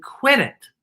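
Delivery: little bear telling off the bully, high. Acted. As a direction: squeak it like a tiny bear. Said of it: "the little bear said".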